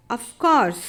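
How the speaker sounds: of course, the r in course dropped; silent r in course. Shown as a demonstration. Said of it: "Of course में भी र silent होता है". (of course में र silent)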